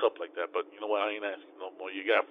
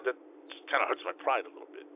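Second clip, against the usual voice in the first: whisper; 7 dB quieter than usual. Real, not acted. Quiet admission of hurt pride.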